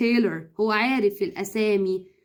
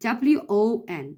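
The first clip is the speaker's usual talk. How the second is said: spelling out; much slower than usual. Shown as a demonstration. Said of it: "فبنقول won".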